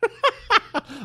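real delighted cackle; high cackling laugh. Real, not acted. Laughs at himself.

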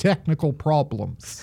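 put-on amateur Australian accent. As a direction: finish the sentence in mock Australian. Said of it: "that's probably the best my Australian accent has sounded".

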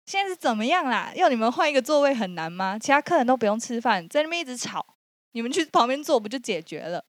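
hammed-up gangster chewing them out; a light imitation of an angry shout; retold yelling rant. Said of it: "就有一个八加九就破口大骂".

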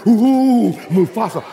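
quiver over the name like a scared hyena; spooked hyena. Retold or imitated. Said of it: "the other hyena said".

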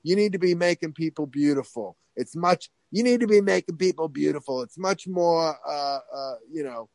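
persuasive imitated Long Island voice; Harvey Fierstein. School boss talking teenager out of acting, light Fierstein impression. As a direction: push the idea in a light mock Long Island voice. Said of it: "sounded like Harvey Fierstein".

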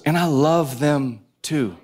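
slow, gentle reply; unhurried reassurance. Retold or imitated.

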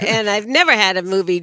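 laughing through the words. Real, not acted. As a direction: laugh as you say it. Laughing while recalling crying.

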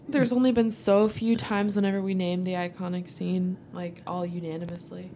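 talking through a yawn; stretched, yawny speech. Real, not acted. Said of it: "You're yawning".

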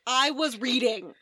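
slow, drawn-out mock indignation; hammed-up aggrieved complaint; indignant. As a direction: protest like a student disturbed mid-study. Acts out student interrupted by mob.

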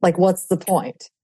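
slow, stretched-out words of exasperation; exasperated ultimatum. Retold or imitated. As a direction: drag out each word, fed up. Quotes own exasperated inner thought.

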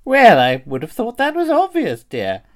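high, swooping lady voice; put-on high-pitched genteel voice; genteel old-dear character. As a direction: play a fussy dear with big pitch swoops. In-character cosplay opening sketch.

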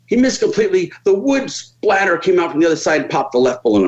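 crew guy's bad news. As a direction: deliver the letdown in the crew guy's voice. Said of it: "It comes out".

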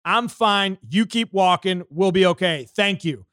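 loud, steady brush-off; firm dismissal. Retold or imitated. Dismissing the zoo rule enforcer, loud and unbending. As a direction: shut him down, no backing off. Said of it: "And I said".

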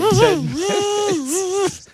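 teasing challenge. Acted. Challenge to tear car apart.

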